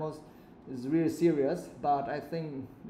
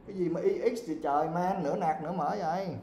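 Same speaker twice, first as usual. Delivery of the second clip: fast, higher-pitched exasperation; exasperated scolding; 5 semitones higher than usual. Real, not acted. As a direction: scold the pupil in quick disbelief. Teacher scolds mixed-language spelling.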